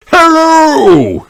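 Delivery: high, loud hello; loud, high rabbit greeting; shout. Acted. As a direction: call out across the water. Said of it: "shouts Grampy Rabbit".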